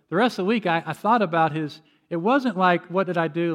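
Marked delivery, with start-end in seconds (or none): 2.9-3.5 mock-defensive question, slightly raised; mildly imitated defensive retort. Shown as a demonstration. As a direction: push the question back, lightly defensive. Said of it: "like defensive".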